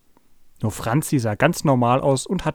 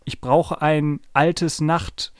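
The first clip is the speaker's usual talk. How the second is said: slow, drawn-out honking; 4 semitones higher, much slower than usual. Acted. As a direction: honk the words out slowly like a trumpet. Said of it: "trötete Paul von hinten".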